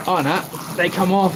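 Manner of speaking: ordinary delivery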